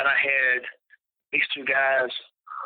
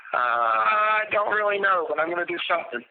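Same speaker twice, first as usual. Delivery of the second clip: hesitant defiance; 8 semitones higher than usual. Retold or imitated. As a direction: drag it out unsure but firm. Retold reply to Brian.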